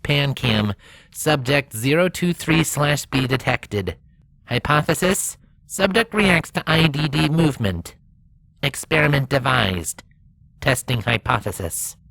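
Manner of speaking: slow, measured machine voice reading a log; lightly robotic rover. Acted. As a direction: speak like a rover reporting data.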